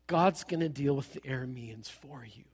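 soft whispered reassurance to the congregation. Real, not acted. Preacher whispering to the congregation. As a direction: lean in and whisper it.

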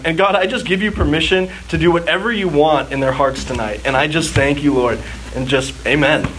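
earnest spoken prayer to God. Acted. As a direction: pray sincerely over the listeners. Leads a closing prayer.

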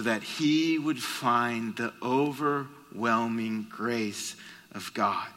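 slow, soft, earnest testimony. Real, not acted. Preacher tells his church of his son's grace, slow and earnest. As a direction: let each word of grace sink in.

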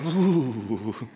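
imitating a shuddering "ooh"; mock shudder. Speaker imitating the audience at Crawford's name, mock shudder. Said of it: "some of you are shuddering".

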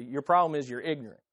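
quick, blunt preachy jab; mock tactless witness. A hint of a pushy witness telling someone off. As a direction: rattle it off like a clumsy evangelist. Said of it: "let me witness to you".

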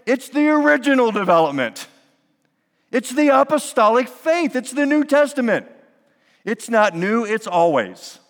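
high, loud, driving sermon climax; fervent preaching. Acted. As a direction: stack each century with mounting fervor.

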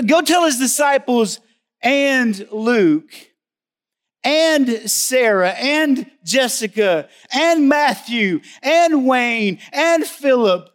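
names called out slowly, building to a high shout; rising preaching call. Real, not acted. Preacher calling out congregation names, building to a shout. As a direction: build to a full-voiced cry. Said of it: "you put your name there".

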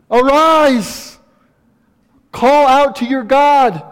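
high and loud, shaking a sleeper awake; urgent rousing call. Acted. Captain quoted rousing Jonah.

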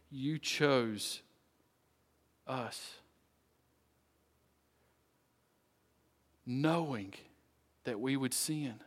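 measured, earnest prayer with long pauses; closing prayer. Real, not acted. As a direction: pray aloud for the congregation, phrase by phrase.

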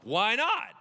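high, loud, rising question; pushing challenge. Acted. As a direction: goad with a rising comeback. God pushing Moses.

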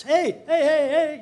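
high, loud calls of hey across the street; retold shouting. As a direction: yell hey hey to grab attention. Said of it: "you know, like this".

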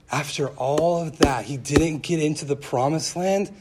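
mildly indignant, questioning rise at the end; understated incredulous protest; upset disbelief. Retold or imitated. Friend protesting a Bible story, upset disbelief. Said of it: "so upset".

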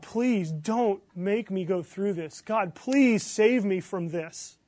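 very slow, deliberate plea; measured acted prayer, weight on each word; begging God. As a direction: plead word by word, earnest but contained. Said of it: "Have you begged God".

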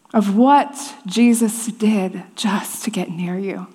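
soft, slow, whispered question; hushed whisper. Real, not acted. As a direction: lean in and whisper it. Tender closing question.

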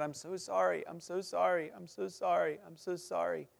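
weeping apology. Retold or imitated. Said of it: "just weeping".

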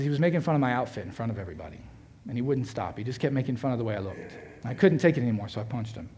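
put-on low, subdued retelling of a hurt child; softened, understated upset; retold weeping daughter. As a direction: quietly voice her hurt, without sobbing. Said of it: "she just starts weeping".

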